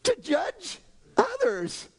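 high, slow, sneering smugness; smug tone. Retold or imitated. A preacher mocking church people who judge others. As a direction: savour it mockingly.

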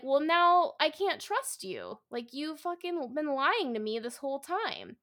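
angry accusation. Retold or imitated. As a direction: hurl the betrayal back at him. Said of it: "And so then she's like".

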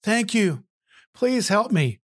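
high, gushing thanks; rescued hiker thanking God, high and gushing; grateful relief. Acted. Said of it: "And the man said".

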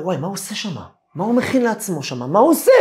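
rising to a loud, high worried cry; alarmed. Retold or imitated. Father chasing his angry son, growing alarmed and loud. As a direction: build from worry into alarm.

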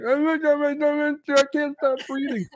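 high mock panic. Host retelling panicked breathing, high hammed-up squeal. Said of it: "And I'm like".

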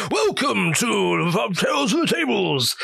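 slow, hammed-up announcer voice; lightly mock the trailer voice; mock epic intro. Host jokingly redoing his grand podcast intro.

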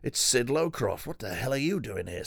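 high, hammed-up surprise at spotting Sid; mock surprised discovery. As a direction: act like you've just spotted someone across the room. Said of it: "And suddenly goes".

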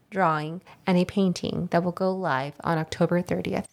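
measured, scripted host announcement; podcast announcement read. Acted. Host tells listeners about the episode, scripted announcement read. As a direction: read out the show details evenly.

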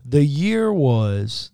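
slow, drawn-out story opening; storyteller voice. Shown as a demonstration. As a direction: start it like a bedtime story. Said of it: "let me get my storyteller, storyteller voice".

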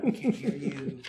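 loud whisper meant to be heard; hissing aside everyone hears; stage whisper. Retold or imitated. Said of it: "I guess I'll stage whisper".

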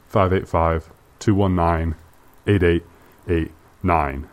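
muffled behind a mask; talking through a cloth mask; through a face mask. Real, not acted. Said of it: "It's really hard to talk with a mask on".

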